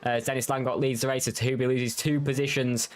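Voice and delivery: brisk live race call; motorsport commentator. Acted.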